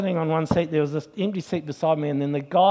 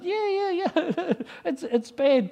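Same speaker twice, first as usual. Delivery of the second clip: laughing agreement; 11 semitones higher, slower than usual. Retold or imitated.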